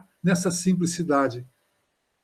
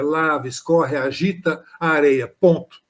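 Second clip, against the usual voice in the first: poem recital; 3 semitones lower than usual. Shown as a demonstration. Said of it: "o cascalho se mistura na bateia".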